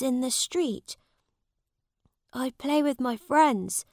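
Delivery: a hint of young Tom; humble boy Tom. Tom describes his street games.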